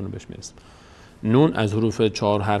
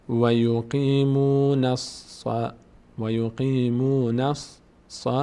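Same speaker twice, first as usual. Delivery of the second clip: drawn-out Quranic chant, syllable by syllable; slow recitation; much slower than usual. Shown as a demonstration. Teacher recites slowly for students, chanting. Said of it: "teacher demonstrates Quran recitation".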